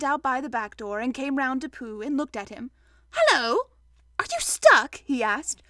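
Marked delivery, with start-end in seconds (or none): 3.1-5.0 high, loud questioning greeting; surprised Rabbit. Acted. Rabbit finding Pooh in his door, surprised. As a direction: call out in surprise.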